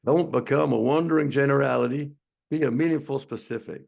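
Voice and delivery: attempted Southern accent, lightly put on; bad Southern accent. Shown as a demonstration. Webinar host attempting Zig Ziglar's quote, bad Southern accent. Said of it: "I'm gonna try to do a Southern accent".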